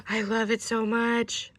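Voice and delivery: slow, drawn-out delight; slow adoring exclamation; heartfelt gush. Real, not acted. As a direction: gush slowly, savouring it. First gush over the gift.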